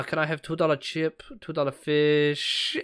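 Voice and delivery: put-on drawn-out copy of Chinese-accented English; picked-up Chinese accent. Customer ordering fish and chips, copying the seller's Chinese accent. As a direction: slip into an imitated Chinese accent. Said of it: "immediately take on that accent".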